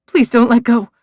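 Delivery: cling to him with the words; begging. A narrator's reading. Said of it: "I beg him".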